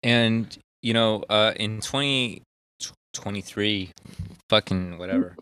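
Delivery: tipsy, slightly slurred speech. Real, not acted. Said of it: "I'm getting progressively drunker".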